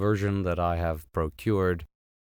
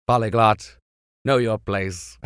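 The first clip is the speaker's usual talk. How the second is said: mock scolding insult; 4 dB louder than usual. Shown as a demonstration. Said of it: "calling someone fat and greedy".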